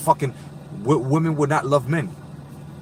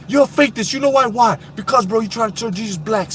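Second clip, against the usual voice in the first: raised indignant voice; mock accusation; 6 semitones higher than usual. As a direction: play the accuser. Acting argument quote.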